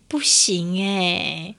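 a clerk's weary, sighing no; mock sighing refusal. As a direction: drag it out very slowly on a sigh. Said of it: "他就那个叹了一口气说". (慢慢叹气地说不行)

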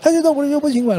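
put-on high, insistent kid voice; whiny child. Child arguing back at the parent, high whiny imitation. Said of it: "说".

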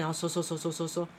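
hushed. Retold or imitated. Describing the fisherman hauling in his net, hushed. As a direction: mutter each haul.

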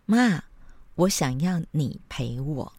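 a gentle, slow asking voice; polite request. Shown as a demonstration. Mom shows her son how to ask kindly, gentle. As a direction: model the nice way to ask. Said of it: "你可以试着用好的口气提出请求嘛".

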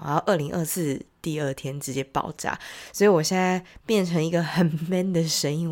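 nasal voice from a heavy cold; sick, congested, blocked-nose voice; stuffy cold voice. Real, not acted. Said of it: "所以如果声音很奇怪的话".

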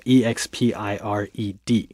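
E X P I R E D named letter by letter; spelling it out. Shown as a demonstration. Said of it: "你要加那个D".

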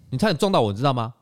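put-on huffy old auntie accusing; mock scolding. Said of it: "他说". (高声模仿阿姨指责)

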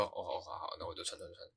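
soft, meek mumbled agreement; meek giving in. Retold or imitated. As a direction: give in quietly like a scolded kid. Kid giving in to dad. (被骂后小声乖乖答应)

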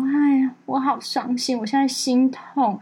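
slow, hammed-up sulking; sarcastic cousin faking heartache, slow; mock heartbroken. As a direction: drag it out like fake heartbreak. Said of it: "打电话来酸我".

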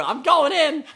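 high, laughing mock cry of going in; gleeful leap into icy water; excited jump-in cry. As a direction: throw yourself in, half laughing. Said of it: "You just go".

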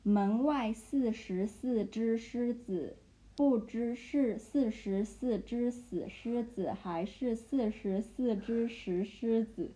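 slow, deliberate syllables; slow careful tongue twister. Shown as a demonstration. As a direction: spell it out slowly for a learner. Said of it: "Okay, so I'll go".

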